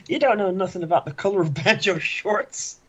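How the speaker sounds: mock angry. Acted insult to Randy.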